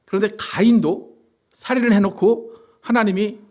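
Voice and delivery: ordinary talk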